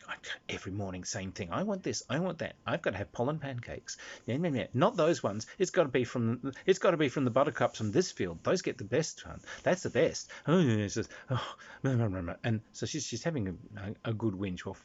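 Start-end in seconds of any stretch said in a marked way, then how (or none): 0.1-10.3 muttering fairy. Acted. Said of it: "she's muttering to herself".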